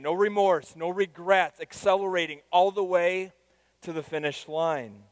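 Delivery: loud and high, climbing to no regrets; preaching. Acted. Pastor pictures a life finished well, preaching fervently. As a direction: proclaim it with rising fervour. Imagined deathbed words, then preaching.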